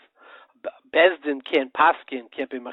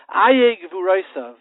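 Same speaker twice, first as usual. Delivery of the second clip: mournful lament; 5 semitones higher, 8 dB louder, slower than usual. Retold or imitated. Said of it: "Daniel came and he said".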